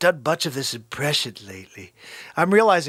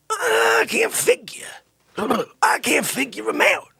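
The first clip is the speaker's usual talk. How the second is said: mock despairing cry; 10 semitones higher than usual. Venting about Sonny who won't move, hammed-up wail.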